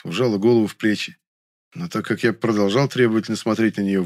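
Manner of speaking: ordinary delivery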